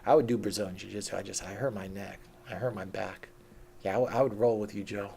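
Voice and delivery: hammed-up imitation of a guy dodging a spar; a lightly voiced boastful coward; mocking Sam Harris. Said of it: "Pretends like he does B J J".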